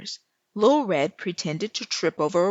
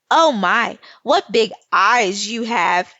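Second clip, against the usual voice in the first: teasing; 7 dB louder than usual. Acted. Nary teasing the wolf.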